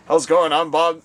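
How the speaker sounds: loud Bob attempt near own pitch; botched Bob voice. Shown as a demonstration. Host trying out Bob, wrong voice. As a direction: miss the voice, stay close to your own. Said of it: "No, wrong voice".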